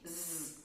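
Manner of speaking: Z given as a soft buzzing z; z sound. Shown as a demonstration. Teacher showing the z sound to students. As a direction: say Z as a voiced z. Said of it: "é um som de".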